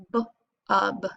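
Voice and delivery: b then ub, sounded apart; syllable by syllable. Shown as a demonstration. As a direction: split it into b and ub. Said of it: "The B is closing in the U".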